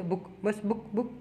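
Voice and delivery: बुक said softly with no push on the u; just drop बुक lightly; बुक spoken gently, no effort; no stress. Shown as a demonstration. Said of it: "कोई जोर नहीं है".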